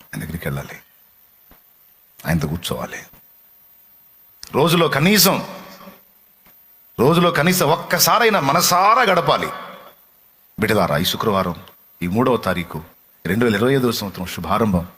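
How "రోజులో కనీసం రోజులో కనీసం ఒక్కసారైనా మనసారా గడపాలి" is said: fervent preaching. Acted. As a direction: drive each word home to the flock. Urging the congregation. (నెమ్మదిగా బిగ్గరగా ఉద్బోధ)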